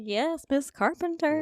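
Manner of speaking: high, slow, relishing cheer; gleeful approval. Retold or imitated. Fan cheering on a favourite teacher, gleeful. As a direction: draw it out high, savouring it.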